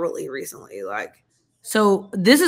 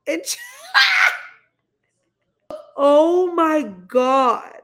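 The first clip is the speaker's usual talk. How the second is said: shrieking jackpot winner; 5 semitones higher, 3 dB louder than usual. Real, not acted. Shrieking at headlock footage.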